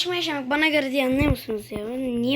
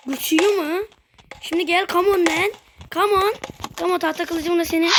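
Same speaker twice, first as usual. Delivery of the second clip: excited taunt; 5 semitones higher than usual. Real, not acted. Taunting the game monster, excited and pumped. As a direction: goad the monster to come at you.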